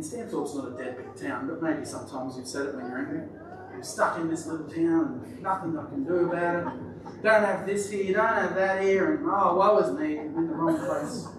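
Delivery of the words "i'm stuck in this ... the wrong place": mild mock moaning with a laugh; a hint of a sulky townie complaining; Trish voice. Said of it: "I've gotta try not to use the Trish voice".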